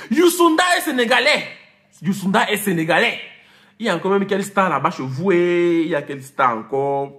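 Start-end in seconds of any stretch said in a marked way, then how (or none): 0.1-1.4 plus haut, plus fort, en martelant; insistant. Acted. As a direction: marteler la vérité à ceux qui se trompent. Corrige ceux qui volent ses stars. (affirmé fort contre ceux qui volent les stars des gens)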